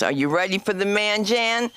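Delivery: comedy host's rousing introduction; hype announcer. Real, not acted. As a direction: build up the crowd, stretching the call to applaud. Host introduces the next comic.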